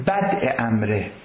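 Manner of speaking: بدء said slowly as bad', with a final glottal stop; slow, careful بدء امره with a glottal stop; correct pronunciation. Shown as a demonstration. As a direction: stress the hamza in بدء. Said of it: "با همزه".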